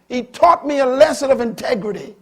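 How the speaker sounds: high, loud proclamation; preached loud. Acted. Preacher declaring the lesson to the congregation, loud. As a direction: hammer the lesson home.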